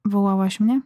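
ordinary delivery

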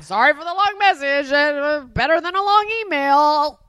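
rambling, apologetic slur; words sliding lazily into each other; almost slurring. Retold or imitated. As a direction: slur it like leaving a sloppy message. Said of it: "almost slurring".

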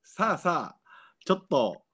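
cracking high voice. Real, not acted. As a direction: voice flips up into falsetto. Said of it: "声が裏返ってしまいました".

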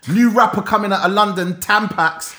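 loud hype MC announcement; hype announcer. Pretend. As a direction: announce him like a new rapper. Announcing a fake rapper name.

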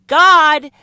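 preacher's booming cry; shouted God. Real, not acted. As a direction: belt out God at full volume. Preacher shouts one word.

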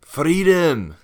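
put-on huge, high Scottish-accented yell; Braveheart battle cry. Graham answering the freedom question, bellowing a Scottish-accented battle cry. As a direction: roar it like a Scottish rebel rallying troops. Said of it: "I have to say it in a Scottish accent".

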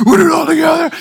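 high, full-out shout; all hyped. Retold or imitated. Player fired up by coach, hyped shout. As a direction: yell the motto with total conviction. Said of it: "then I get all hyped".

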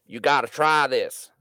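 slow, drawn-out bad imitation of Beeman's accent; badly put-on accent of a drinking buddy. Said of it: "I'm doing a bad Beeman accent".

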